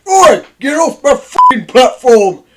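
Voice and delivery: loud, high angry Yorkshire shout; shouted Yorkshire rant at a trespasser; Yorkshire accent. Retold or imitated. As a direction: bark it like a furious Yorkshire railwayman. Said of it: "I just love Yorkshire accents".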